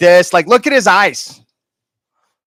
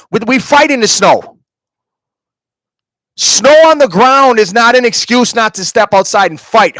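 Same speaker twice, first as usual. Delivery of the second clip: raised, heated calling-out; louder, worked-up scolding; angry rant; 3 semitones higher, 4 dB louder than usual. Real, not acted. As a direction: tear into him for not stepping outside. Ranting at Harley for not fighting.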